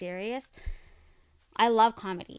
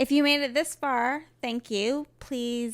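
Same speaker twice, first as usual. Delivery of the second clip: podcast sign-off; 5 semitones higher, 6 dB louder, slower than usual. Real, not acted. Co-host joins the sign-off.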